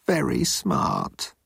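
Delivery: high, very slow glum voice; miserable thought. A narrator's reading. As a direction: draw it out in dejected resignation. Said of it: "thought Moan miserably".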